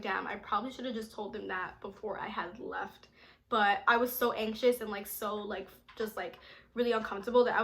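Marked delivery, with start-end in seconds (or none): 0.0-3.1 whispered damn, I probably should have; soft regretful inner whisper. Retold or imitated. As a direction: hush it like a guilty thought. Her inner regretful thought.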